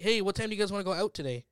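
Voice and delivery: mock Minnesotan with odd O in "out"; lightly done Minnesota accent. Shown as a demonstration. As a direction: chat like a Minnesotan, odd rounded "out". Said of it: "say their O's really weird".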